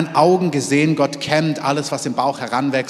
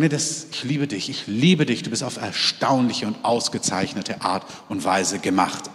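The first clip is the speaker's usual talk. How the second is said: quiet, lower and gentle as God's voice; a gentle whispered-down promise; tender reassurance; 5 semitones lower, 5 dB quieter than usual. Retold or imitated. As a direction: comfort softly, sinking lower. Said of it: "da möchte Gott sagen".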